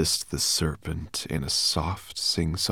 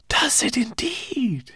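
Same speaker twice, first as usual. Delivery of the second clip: high, breathy, slow hiss; hissing serpent; slower than usual. A narrator's reading. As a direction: hiss it with amusement. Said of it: "hissed the serpent".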